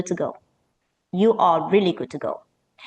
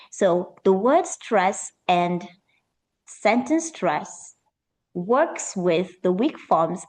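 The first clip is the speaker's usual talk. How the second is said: slow; slower than usual. Shown as a demonstration. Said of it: "English is music-like".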